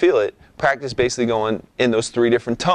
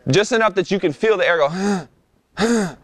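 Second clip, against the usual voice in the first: diaphragm huffs; 7 semitones higher than usual. Shown as a demonstration. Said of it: "you're resisting it".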